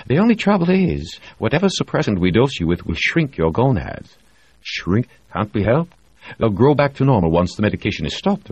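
enjoy delivering the bad news; smug doctor. Reed explains smugly.

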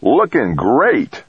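called out high and slow; shouting. A narrator's reading. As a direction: shout it across the room. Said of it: "shouted Possum Craig".

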